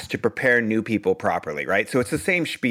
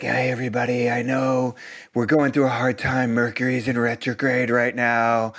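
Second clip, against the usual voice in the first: mocking spiritual guru voice. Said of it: "Whose voice is that person using?".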